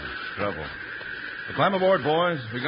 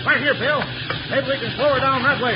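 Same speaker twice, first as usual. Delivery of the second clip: high, loud, tense cry; urgent shout; 9 semitones higher, 4 dB louder than usual. Acted. Timber boss points Bill to the reverse, shouting urgently. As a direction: call out a last hope urgently. Urgent attempt to slow runaway train.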